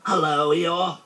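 high, simple bear voice; high cheery greeting; Pooh. A narrator's reading. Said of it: "said Pooh".

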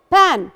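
بان as "pan", with short "a"; short vowel in بان. Shown as a demonstration. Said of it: "الفرق بين الشورت فاول واللونج فاول".

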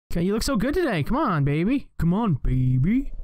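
coaxing, cooing at the screen; butter it up like a pet; sweet talking the game. Real, not acted. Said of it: "just got sweet talking a little bit".

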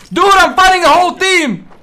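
urgent excited shout; combat callout. Real, not acted. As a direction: yell it mid-firefight. Fighting a whole team alone.

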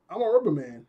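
imitating speech with a stretched cheek; cheek pulled out. Shown as a demonstration. Showing viewers Luffy's classic move, cheek pulled out. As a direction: say it while tugging your cheek out. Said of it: "pulls his cheek out".

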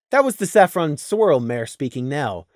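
ordinary delivery, nothing marked

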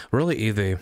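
usual speaking voice

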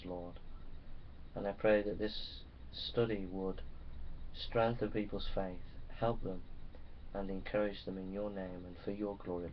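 hushed earnest prayer; quiet opening prayer. Acted. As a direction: pray it softly and sincerely.

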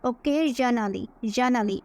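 occasionally with the s said as a z sound; correct pronunciation. Shown as a demonstration. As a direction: say occasionally with a z in the middle, not an s. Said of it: "এই এসকে কিন্তু আমরা জেডের মতো উচ্চারণ করব". (occasionally শব্দে s-কে z-এর মতো উচ্চারণ)

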